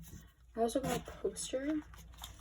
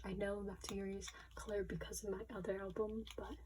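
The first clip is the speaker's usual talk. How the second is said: quick hushed whisper; whispered aside; 2 semitones lower, 7 dB quieter than usual. Real, not acted. Unboxer whispering to viewers about her other album, hushed. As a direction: murmur it under your breath.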